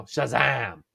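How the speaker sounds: slow, stretched "Shazam!"; demonstrated exclamation. Shown as a demonstration. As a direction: show how "Shazam!" must be said, drawing it out. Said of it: "You always gotta say it with the".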